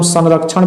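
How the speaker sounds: संरक्षण said with an N sound after the first vowel, "san-rakshan"; anusvara as N. Shown as a demonstration. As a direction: pronounce the dot in संरक्षण as a clear N. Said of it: "उच्चारण जो है न भी होता है".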